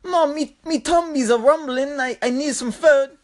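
high-pitched mock Aussie little boy; whiny Australian child. Hungry kid begs his sleepless mom, high Australian child imitation. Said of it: "he's like".

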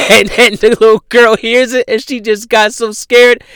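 high, loud, cracking up; laughing retelling. Real, not acted. Host retelling how the little girl got scared, laughing hard. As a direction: tell it through bursting laughter.

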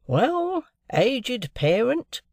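high, slow, cheerful hail to a deaf father; cordial, jocose greeting. A narrator's reading. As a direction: call out warmly and slowly to a deaf old man. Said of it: "in a cordial and jocose way".

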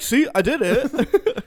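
high, slow, laughing brag; mock proud drunk. Drunk after a sobriety test, high slow laughing brag. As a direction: grin through a fake triumph. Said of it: "they're like".

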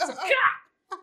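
slow, high, laughing shout; laughing yell. Retold or imitated. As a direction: laugh through the line. Repeats while laughing.

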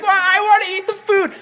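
high-pitched mock whine; whiny complaint. Jailed brother wants some of the dinner, whiny. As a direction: whine it like someone left out.

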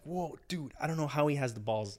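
awed whisper. Retold or imitated. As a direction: marvel under your breath. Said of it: "I'm like".

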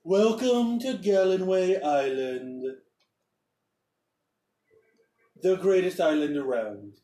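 proud little governor bragging; governor's voice. Acted. Governor greets the arriving party, boastful. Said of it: "and he goes".

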